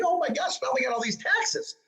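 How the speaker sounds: sudden high mock gasp of alarm; a quick, hammed-up yelp of surprise at the tax bill. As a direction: pitch it up in fake shock. Imagined taxes on his IRA.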